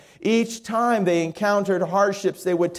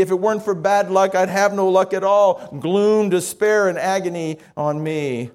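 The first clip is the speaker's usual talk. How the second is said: mock gloomy lament. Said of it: "when they would sing gloom".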